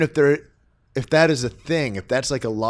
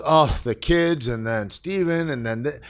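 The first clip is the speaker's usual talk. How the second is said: mock complaining; 3 semitones higher than usual. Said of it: "And she goes".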